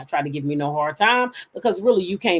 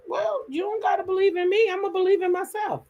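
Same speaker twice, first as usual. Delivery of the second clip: tag; 12 semitones higher than usual. Retold or imitated. Her acted retort.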